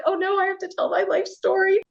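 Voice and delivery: high-pitched playful dread; comically put-upon inner voice; mock dismay. Quoting own tired reluctance at questions.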